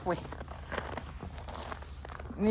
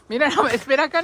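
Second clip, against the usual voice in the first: laughing; 5 semitones higher, 9 dB louder, faster than usual. Real, not acted. Laughing while stepping through snow.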